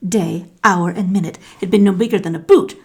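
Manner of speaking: usual speaking voice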